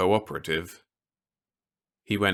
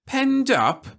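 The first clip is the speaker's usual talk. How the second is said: much higher, louder scornful echo; disgusted snort; 6 dB louder than usual. A narrator's reading. Officer scoffing at Peter's complaint, disgusted. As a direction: toss the words back in disgust. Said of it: "he snorted disgustedly".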